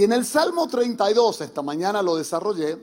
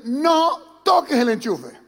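put-on child voice; 3 semitones higher, 3 dB louder, slower than usual. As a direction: parrot the warning like a small kid. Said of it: "el niño dice".

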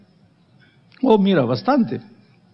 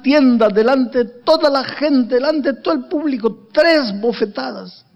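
upset girl's voice, lightly voiced; 2 semitones higher than usual. Tearful girl tells of the slaps.

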